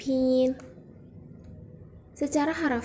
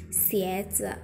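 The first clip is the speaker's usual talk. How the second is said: "Xieze" low, first syllable gently rising; second tone; 3 semitones lower than usual. Shown as a demonstration. Teacher repeating Mandarin for shoes, second-tone rising "Xieze". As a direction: begin "Xieze" low and lift it. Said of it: "nada dua ya".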